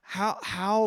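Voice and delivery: searching. Pretend. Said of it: "like, searching".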